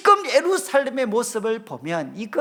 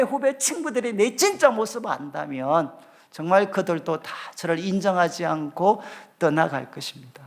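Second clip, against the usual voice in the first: usual speaking voice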